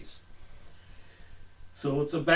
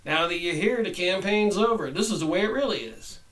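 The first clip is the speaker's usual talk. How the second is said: devil; 3 semitones higher than usual. Acted. Devil answers senator.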